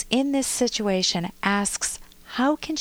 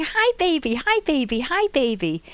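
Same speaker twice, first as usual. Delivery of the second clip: put-on high, loud, insistent toddler voice; eager toddler calling; 6 semitones higher, 3 dB louder than usual. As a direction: keep calling to the sleeping baby, growing more eager. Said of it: "and she's going".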